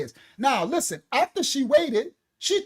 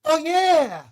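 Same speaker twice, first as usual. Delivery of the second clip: higher, drawn-out oh yeah of realisation; sudden realisation; 3 semitones higher, much slower than usual. Retold or imitated. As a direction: slowly realise you got played. Realising the scam.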